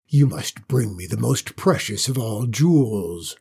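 a warning in the dragon's voice; ominous dragon voice, warning her. Acted. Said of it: "the dragon warned".

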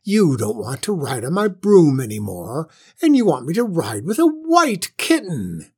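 high, loud, self-pitying witch wail; almost crying. A narrator's reading. Witch lamenting nobody ever scares her, near tears. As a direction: wail it out, feeling sorry for yourself. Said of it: "almost crying now".

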